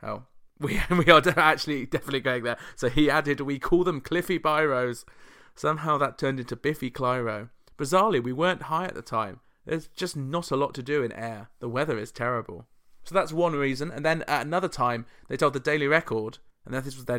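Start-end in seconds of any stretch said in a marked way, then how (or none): 3.4-5.1 lightly put-on Scottish accent; a touch of mock Scottish. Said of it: "that was a Scottish accent". 7.8-12.7 lightly put-on Scottish accent; mild mock Scottish voice. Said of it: "that was a Scottish accent".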